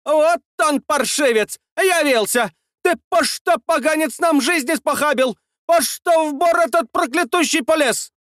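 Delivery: very high shrill-free scolding woman's voice, pitched far up; scolding village woman. A narrator's reading. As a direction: berate him like an angry village gossip. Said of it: "воинственно уперли руки в бока". (высокий бранчливый женский голос)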